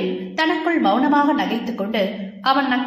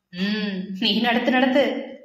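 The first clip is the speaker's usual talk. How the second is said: mock go-ahead, lightly teasing; slower than usual. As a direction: egg her on with a knowing tease. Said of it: "கேலியில் இறங்கினர்".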